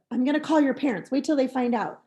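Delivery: a teacher warning the pupil about calling home; threatening teacher. Shown as a demonstration. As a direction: threaten to tell the parents. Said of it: "Instead of".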